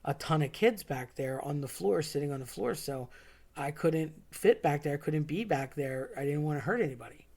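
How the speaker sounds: understated calm, eased down a little in volume. Retold or imitated. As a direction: imitate a friend calmly explaining himself. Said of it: "he says very calmly".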